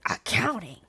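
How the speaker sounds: unvoiced, scoffing whisper of the word; guy sneering at her major in a whisper; whispered mock disbelief. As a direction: breathe Accounting? as a sneer.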